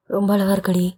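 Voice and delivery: mock-husky lover's voice. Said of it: "அஸ்கிலெல்லாம் பேசுறீங்க?".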